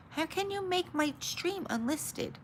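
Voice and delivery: indignant disbelief. Real, not acted. Outraged at YouTube setting.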